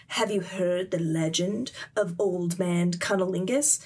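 storyteller opening an urban legend; mock-solemn tale-telling voice; legend narration. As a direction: intone it like a mysterious narrator. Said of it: "kind of the narration of".

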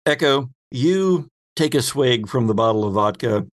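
usual speaking voice

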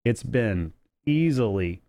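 stuffy nose, nasal allergy voice; a bit nasal and sniffly from allergies. Real, not acted. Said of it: "if I sound a little nasally, a little sniffly".

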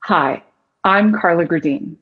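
low, grounded, confident introduction. Shown as a demonstration. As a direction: pause after the greeting and let the voice settle down. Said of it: "you have that lower soothing tone".

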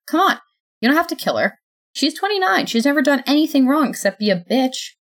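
high, loud pleading; desperate pleading. Acted. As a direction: beg hard, voice pushed up. Sophie pleads for Tyler.

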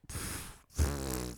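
imitated dismissive puff of air; mock scoffing laugh. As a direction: puff out a soft, voiceless scoff. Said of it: "like, he laughs".

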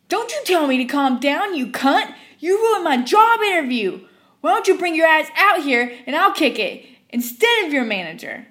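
furious customer shrieking; screaming. Retold or imitated. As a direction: scream it waving the cup. Customer threatening.

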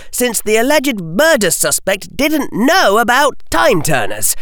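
put-on young boy outraged at the verdict. A narrator's reading. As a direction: protest it in disbelief. Harry argues.

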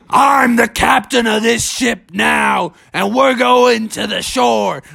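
high, slow, commanding bear voice; drawn-out storybook proclamation; mighty Bubby. A narrator's reading. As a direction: take over the ship like a captain. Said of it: "gave out a mighty roar, and he said".

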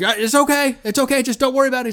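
high-pitched urgent soothing, imitated; hammed-up celebrity impression; Morgan Freeman. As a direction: act the detective calming his partner in alarm. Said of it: "actually not a bad Morgan Freeman".

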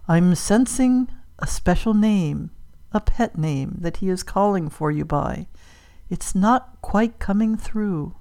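slow, halting séance voice; searching medium. Acted. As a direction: feel for each phrase slowly, lightly mystical. Medium strains to hear spirit.

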